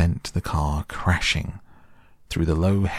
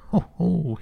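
much higher, gleeful crowing ho-ho; ecstatic crowing laugh; 13 semitones higher than usual. A narrator's reading. Toad alone under a hedge, crowing with self-admiring glee. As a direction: crow with delight at himself. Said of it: "he cried, in ecstasies of self-admiration".

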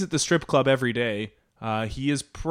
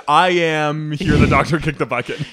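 stumbling over words; 3 dB louder than usual. Retold or imitated. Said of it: "And also he stumbled".

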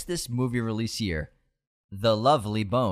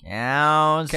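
high, slow, drawn-out Southern taunt; Southern villain taunt; 5 semitones higher, 5 dB louder, slower than usual. Shown as a demonstration. Host keeps the Cape Fear villain voice, slow and high. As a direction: stretch it out, mocking and high. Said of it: "I'm gonna do an impression".

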